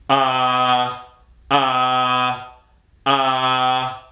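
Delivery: "Ah" held long on one level note; drill vowel demo. Shown as a demonstration. Coach shows students the drill, steady held "Ah". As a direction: sustain "ah" steadily, open and unsung, three separate times. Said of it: "you're gonna go".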